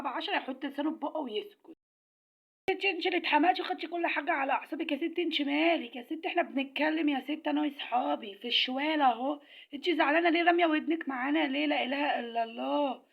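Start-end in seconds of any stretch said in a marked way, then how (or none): 2.7-11.7 heated scolding. Acted. Arguing with the tomato lady. 11.7-13.0 slow, tearful sigh of exasperation; exasperated wail. Acted.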